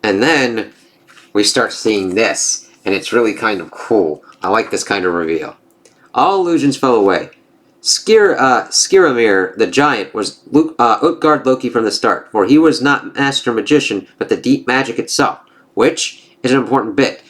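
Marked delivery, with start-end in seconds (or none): 6.1-15.4 lightly voiced gods trading taunts; storybook reading of a Norse comic; comic dialogue read-aloud. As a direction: read the panels with a hint of character.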